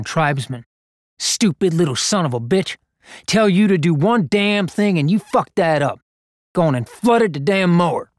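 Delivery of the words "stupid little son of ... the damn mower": put-on cursing at a boy. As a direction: spit the insults at the kid. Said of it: "spraying a defilement of words".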